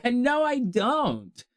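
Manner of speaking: mock-weary no, spoken slowly; dragging the refusal out; slow drawn-out no. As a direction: stretch each word very slowly. Same answer, drawn out.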